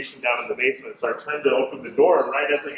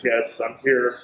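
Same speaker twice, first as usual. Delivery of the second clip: mildly lowered voice of a spirit; deep voice; 3 semitones lower than usual. Retold or imitated. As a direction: retell it a touch deeper, as the spirit. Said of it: "in a deep voice".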